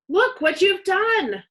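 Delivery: loud high furious shout, drawn out. A narrator's reading. Sister yells at brother over spilled milk, loud high shout. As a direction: yell it at the boy who spilled milk. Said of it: "shouted Susie".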